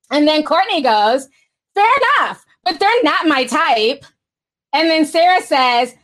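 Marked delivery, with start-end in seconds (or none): 1.7-4.0 put-on Valley Girl voice. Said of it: "I got my Valley Girl voice on".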